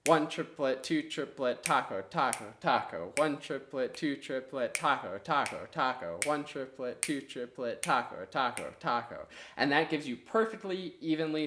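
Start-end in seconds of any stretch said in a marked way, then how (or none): 0.1-9.3 steady rhythmic chant, triplets into taco taco taco; counting with tacos. Shown as a demonstration. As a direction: keep the pulse going evenly. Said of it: "you just keep those triplets going".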